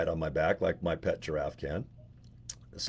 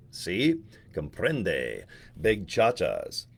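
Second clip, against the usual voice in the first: mock Spanish; 4 semitones lower, much slower than usual. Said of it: "number one in El Spanish, I think".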